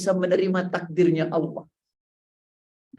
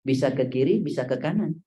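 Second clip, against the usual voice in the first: ordinary talk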